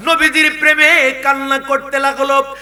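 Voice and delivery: high, very loud exhortation; impassioned yelling to the crowd; full-force preaching. Real, not acted. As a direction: shout it out to rouse the congregation.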